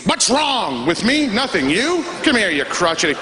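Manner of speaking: high, sing-song mock friendliness; mock gushing greeter. Sarcastic about a Montreal ER greeter, mock gushing and high. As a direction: gush sarcastically like an overeager greeter. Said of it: "the friendliest people to greet you".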